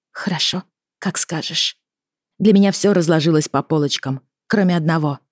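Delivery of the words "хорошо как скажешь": meek agreement. A narrator's reading. Daughter gives in to father.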